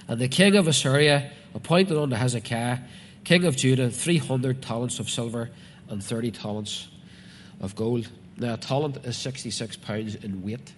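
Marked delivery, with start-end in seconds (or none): 0.1-8.1 loud, declaimed Bible reading; preacher reading out scripture. Acted. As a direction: proclaim the verse firmly to the congregation. Reads scripture aloud to congregation.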